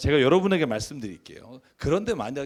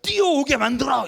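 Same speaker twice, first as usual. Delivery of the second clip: higher, louder, whiny annoyed complaint; imitating a daughter grumbling at her father; daughter's irritated snap; 8 semitones higher, 5 dB louder than usual. Pastor imitating his daughter complaining at the car, irritated and whiny. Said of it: "확 짜증을 내면서".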